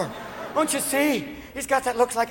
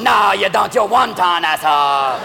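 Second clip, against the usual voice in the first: loud taunt as a caricatured Chinese driver; mock Chinese driver; 4 dB louder, slower than usual. Driver taunts the man behind him, mock Chinese driver. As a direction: shout back in a caricature Chinese voice. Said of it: "a slow Chinese driver".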